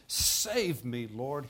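loud first words, a contained mock shout; shouted plea. Preacher voicing sinking Peter calling to Jesus, moderately shouted. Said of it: "he shouted".

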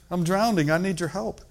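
acted cry of a drowning man; desperate crying out. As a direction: beg urgently for rescue. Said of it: "He cried out and said".

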